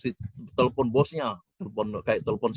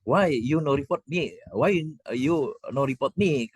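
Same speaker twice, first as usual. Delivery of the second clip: put-on slow, higher broken English with an Arab accent; 6 semitones higher, slower than usual. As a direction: imitate the Arab man's halting English, slowly. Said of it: "bahasa Inggrisnya kira-kira". (menirukan bahasa Inggris patah-patah logat Arab, pelan)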